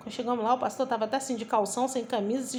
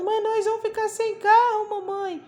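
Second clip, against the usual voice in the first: put-on high, loud childlike wail; acted-out tearful protest, pitched way up; imitated crying child; 9 semitones higher, 5 dB louder than usual. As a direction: mimic a little boy wailing to mom. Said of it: "o meu filho chorava".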